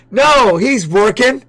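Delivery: slow mocking echo of a coach's call; mimicking the corner. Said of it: "Did you hear what the corner said?".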